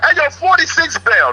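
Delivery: high mock jeer at a neighbor; sing-song it high like inmates taunting; high imitated prison heckle; retold taunting scream. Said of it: "the blood niggas start screaming".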